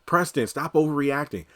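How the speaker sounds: high squeaky dismissive "no, no"; mock Danny brushing off. Mocking Danny waving off Preston, high dismissive. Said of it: "And Danny's like".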